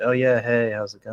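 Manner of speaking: flat, monotone character voice. Describing a show's characters, imitating Stevie in a monotone deadpan. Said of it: "it's very monotone and deadpan".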